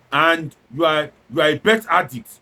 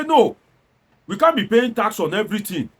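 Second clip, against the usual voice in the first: protesters' outcry; 4 semitones higher than usual. Retold or imitated. Malaysian protesters rejecting the tax, mock outraged shout. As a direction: cry out against the tax like a crowd. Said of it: "The people protested and say".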